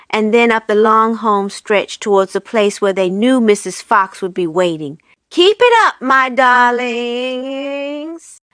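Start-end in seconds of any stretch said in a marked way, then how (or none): 5.3-8.4 shouted. A narrator's reading. Mister Fox shouting encouragement to the running children. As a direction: cheer them on as you run. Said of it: "shouted Mister Fox".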